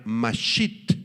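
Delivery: mashit with the final I stressed. Shown as a demonstration. Teaching listeners the Hebrew word, mashit stressed on the I. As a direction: lean on the last syllable of mashit. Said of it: "con acento en la I".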